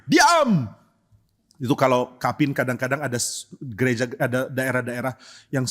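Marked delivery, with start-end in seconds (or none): 0.1-0.6 high, sudden shouted command; Pak Tong. Retold or imitated. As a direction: shout for silence, stretching the word. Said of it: "Mirip kalau Pak Tong lagi kapin". (teriakan keras menyuruh diam)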